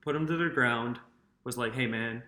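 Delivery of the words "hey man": lower, softer, calm retold plea. Host voicing the player who broke up the fight, calm. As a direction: imitate someone quietly cooling down a fight. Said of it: "calmly just took him".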